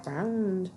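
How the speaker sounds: ground echoed long and drawn out; odd stress on ground. Shown as a demonstration. Reader echoing her own odd delivery, ground drawn out. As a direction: repeat ground with a stretched vowel. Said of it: "I don't know why I said it like that".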